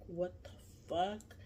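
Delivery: soft, slow, drawn-out disbelief; stunned muttering. Retold or imitated. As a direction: say it under your breath, dazed. Stunned reaction to the finger lick.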